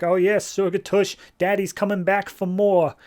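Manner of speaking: high-pitched mock creep voice; leering attacker. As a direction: taunt her as a hammed-up lecherous driver. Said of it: "car swerves back around, says, like".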